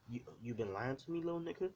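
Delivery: a touch of an angry father's rising question; half-heartedly accuse, pitch jumping up on the end; mild angry dad. Acted. Dad questions his son, mildly angry. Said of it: "this is what his, his dad says exactly that".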